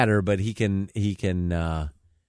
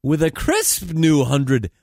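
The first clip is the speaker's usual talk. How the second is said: comedy newscast with punchy phrasing; mock news read; 4 semitones higher, 3 dB louder than usual. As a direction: read it like a satirical anchor. Reads mock news items.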